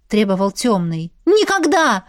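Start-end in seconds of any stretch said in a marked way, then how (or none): 1.3-2.0 high, loud furious never; furious refusal. A narrator's reading. Vlasta answering the Dark One's command, furious high shout. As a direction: hurl the word back in rage. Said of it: "в ярости ответила ему".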